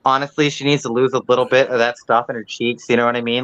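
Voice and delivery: put-on breezy Valley girl gossip, lightly done; Valley girl accent. Shown as a demonstration. Keeping up the Valley girl accent about Lauren. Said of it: "I'm doing a Valley girl accent".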